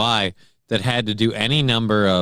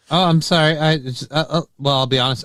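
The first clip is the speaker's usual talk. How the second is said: a little winded after running; slightly out of breath. Real, not acted. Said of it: "I, a little winded".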